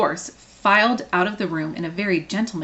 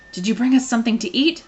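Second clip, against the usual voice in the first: hopeful T-Rex; 5 semitones higher, 4 dB louder than usual. Acted. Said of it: "asked hopefully".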